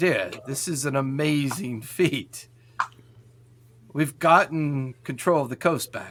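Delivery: concerned, worried tone. Voicing a character on a call about regaining the coast: concerned voice. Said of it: "There's concern in his voice".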